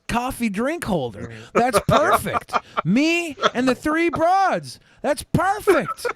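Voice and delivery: high, slow drawn-out impression; Monty. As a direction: stretch every word up high, slowly. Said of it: "Monty's like".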